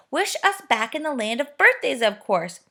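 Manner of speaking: high, loud eager shout; the friends yelling the wish at Fanny; excited yell. A narrator's reading. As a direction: everyone shouting at once. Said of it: "everyone yelled in excitement".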